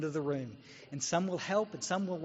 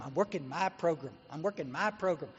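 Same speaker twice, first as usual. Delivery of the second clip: mocking quote. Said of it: "You hear people in A A".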